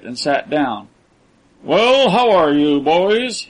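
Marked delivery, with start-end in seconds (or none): 1.6-3.5 hearty, higher, louder greeting; genial. A narrator's reading. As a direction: greet them with false cheer. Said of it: "he inquired genially".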